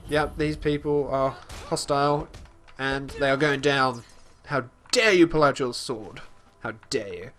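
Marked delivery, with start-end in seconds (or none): 4.5-7.3 lightly voiced indignant Khajiit; mock outrage, leaning hard on "dare"; attempted Khajiit voice. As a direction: try a Khajiit affronted at the challenge. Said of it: "I'll try and do a Khajiit voice".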